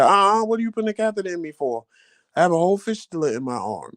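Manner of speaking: high, fast, indignant protest; indignant disbelief. Retold or imitated. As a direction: object in a rush of disbelief. Refusing catheter at hospital.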